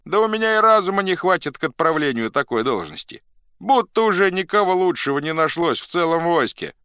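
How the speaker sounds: high, loud protesting; pleading protest. A narrator's reading. Old Cossack declines the post, protesting loudly. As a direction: insist you are unfit. Chosen man protests his unworthiness.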